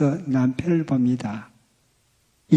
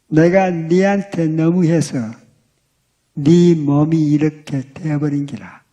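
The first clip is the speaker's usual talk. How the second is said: Gyeongsang dialect; 3 dB louder, slower than usual. Retold or imitated. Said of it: "경상도 남자들 하는 말투".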